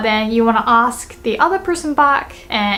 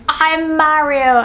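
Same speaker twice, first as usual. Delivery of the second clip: slow, higher-pitched mock claim; lightly acted impostor, drawn out; Wario; 4 semitones higher, slower than usual. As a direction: announce it slowly, playacting a game villain. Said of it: "let's imagine Wario is saying".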